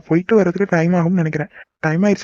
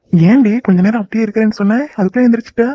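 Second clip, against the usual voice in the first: teasing; 4 semitones higher, 5 dB louder than usual. Acted. Teasing lover after hug.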